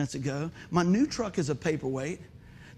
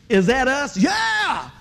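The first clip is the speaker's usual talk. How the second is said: shouted, higher call to the crowd; louder retake; 6 semitones higher, 8 dB louder, much slower than usual. Shown as a demonstration. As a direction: rewind it and call it out with fire. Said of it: "Okay, I'm gonna rewind that".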